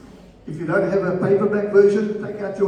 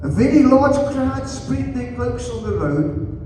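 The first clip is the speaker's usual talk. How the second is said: deliberate Bible reading, spacing out the phrases; scripture reading; 2 semitones higher than usual. Acted. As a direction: read the prophecy slowly to a congregation. Reads scripture aloud to congregation.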